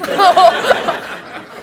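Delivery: breaking into a high laugh mid-sentence; words stretched slowly through laughter; can't finish for laughing. Real, not acted. Laughing at own tombstone joke.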